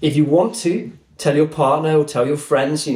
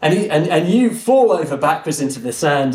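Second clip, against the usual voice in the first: ordinary talk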